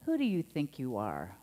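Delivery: accusing, challenging question; scolding tone. Shown as a demonstration. Minister demoing a scolding parent's accusing tone. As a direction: put them in their place with it. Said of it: "was there tone in that?".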